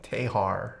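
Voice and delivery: low, questioning Australian "Tehar"; Australian accent. Shown as a demonstration. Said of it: "Australian accent?".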